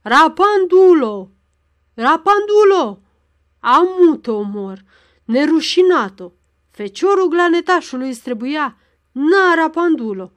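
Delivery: furious roaring father, loud and high; panting bellow. A narrator's reading. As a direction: bellow the insults while beating her, panting. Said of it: "gâfâind și mugind". (răcnet furios, gâfâind și mugind)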